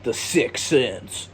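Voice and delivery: The Sixth Sense, slow, said as sicks sense; dropped th. Shown as a demonstration. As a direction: stretch out The Sixth Sense with no th sound. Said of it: "Sixth Sense instead of Sixth Sense".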